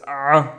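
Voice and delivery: "a" as an isolated throat-constricted sound; vomiting sound. Shown as a demonstration. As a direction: make "a" a retching pharyngeal ain. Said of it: "the vomiting sound".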